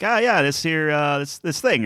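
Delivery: lightly imitated old-timey delivery; Norm Macdonald, old-timey. Fan imitating a favorite comic's rambling, lightly old-timey. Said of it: "it's very old-timey".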